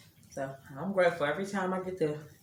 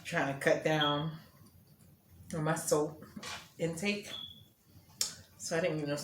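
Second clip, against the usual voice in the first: talking with the hiccups; speaking between hiccups; 3 dB quieter than usual. Real, not acted. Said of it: "I got the hiccups".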